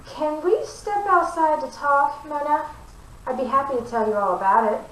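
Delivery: high, nervous and pleading; flustered plea. A narrator's reading. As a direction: hurry her outside, flustered. Embarrassed Gertrude pleads.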